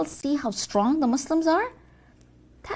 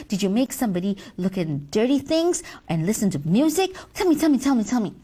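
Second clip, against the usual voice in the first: eager; 3 semitones lower, faster than usual. Acted. Eager boss demands news.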